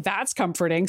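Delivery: low, understated sarcasm; sarcastic. Retold or imitated. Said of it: "sarcastically, which I liked".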